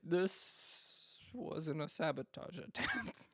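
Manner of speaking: slow, laughing through the mock admission; fan admitting it, laughing. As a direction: drag it out, laughing at the fans. Mocking fans' later admission.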